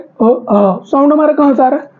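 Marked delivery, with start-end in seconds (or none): 0.0-0.8 अ short then आ long, both from the throat; vowels from the throat. Shown as a demonstration. Teacher showing students throat vowels अ and आ. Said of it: "कंठ से बोल रहे हैं".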